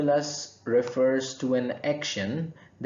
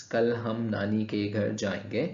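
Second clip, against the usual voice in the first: fast Urdu example; much faster than usual. Shown as a demonstration. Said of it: "if we look at this Urdu sentence".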